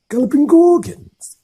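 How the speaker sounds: loud, high burst; startled exclamation. Acted. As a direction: blurt it out. Hagrid exclamation.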